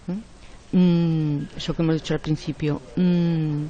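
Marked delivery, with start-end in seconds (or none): 0.8-1.5 hesitation hum. Shown as a demonstration. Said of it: "eso indica vacilación". 2.9-3.6 hesitation hum. Shown as a demonstration. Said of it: "eso indica vacilación".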